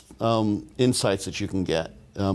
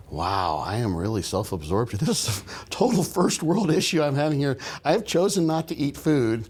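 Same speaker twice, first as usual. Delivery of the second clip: pitched up, amused at own self-absorption; self-mocking inner voice; 4 semitones higher than usual. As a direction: laugh at yourself for complaining.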